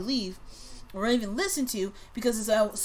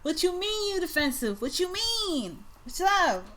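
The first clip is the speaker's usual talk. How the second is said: indignant Scorpio; 9 semitones higher than usual. Acted. Reader mocking the Scorpio's defensive comeback, high and indignant. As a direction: act out a touchy Scorpio, pitched well up.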